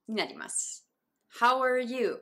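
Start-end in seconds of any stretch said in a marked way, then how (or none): 1.4-2.2 "are" in "How are you" as a short "er"; reduced ARE. Shown as a demonstration. Teacher recapping three variants, "are" in "How are you" reduced. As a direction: run "How are" together as "how-er", full "you". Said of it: "という三種類ですね".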